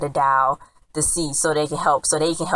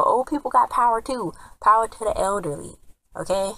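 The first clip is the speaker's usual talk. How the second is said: raised, preachy mock slogan; mock rally; 6 semitones higher than usual. Real, not acted. Viewer cheering on old spies, higher mock rally cry. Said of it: "playful proclamation".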